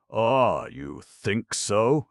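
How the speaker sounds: villain sneering down at captives. A narrator's reading. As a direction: sneer it mockingly at them. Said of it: "sneered Woods".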